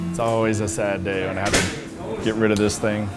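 ordinary talk, nothing marked

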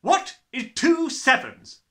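loud, high and slow, each word weighed; menacing question. A narrator's reading. Trunchbull grills Rupert on his sums, loud and slow. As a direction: demand it like a threat. Headmistress interrogates terrified boy.

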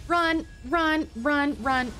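urgent repeated calls, starting high; urgent fleeing. Real, not acted. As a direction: urge yourself to get away. Fleeing a boss in game.

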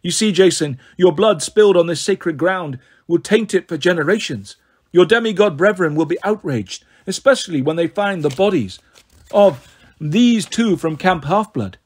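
villainess savouring her plot, lilting; silky gloating, lightly characterised; gloating snow goddess. Acted. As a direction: relish their doom as a cool goddess.

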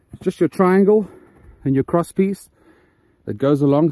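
out of breath from bending down; puffing between words, short on air. Real, not acted. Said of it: "So I'm out of breath".

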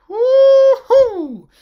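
high, loud mock whoop; sarcastic cheer. Reviewer mocks the cringe song with a sarcastic whoop.

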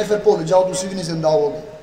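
dropped low, quiet Punjabi aside; in Punjabi, a low, half-joking shrug of a line; Punjabi saying. Retold or imitated. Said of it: "تو پنجابی سے کہنے".

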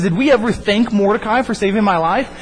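mildly excited retold king; a touch of happy eagerness; happy excitement. King remembers the man who saved his life, mildly excited. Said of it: "he gets excited and he gets happy".

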